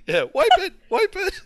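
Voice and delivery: laughing. Real, not acted. Laughing while quoting the scene.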